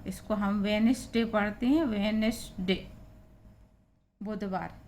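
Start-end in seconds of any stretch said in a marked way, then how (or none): 0.6-2.9 वेडनेसडे said as वेनसडे, no d; silent d. Shown as a demonstration. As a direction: leave the d out of वेडनेसडे. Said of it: "silent है आपका". (डी के बिना वेनसडे)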